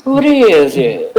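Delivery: Count Dracula voice. Acted. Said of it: "You sound like Count Dracula".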